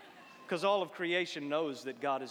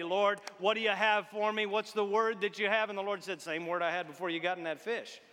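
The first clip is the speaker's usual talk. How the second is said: eager Jonah; 4 semitones higher, 5 dB louder than usual. Acted. Eager Jonah answers God.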